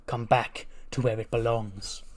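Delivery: slow, brooding villain promo, lightly voiced; a hint of a menacing wrestler promo; Neville promo. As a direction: draw it out like a bitter dethroned champion. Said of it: "he's cutting up promo. He goes".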